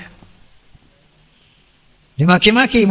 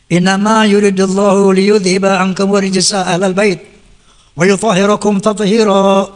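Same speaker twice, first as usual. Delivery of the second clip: Quranic recitation. Acted. Quoting Quran verse.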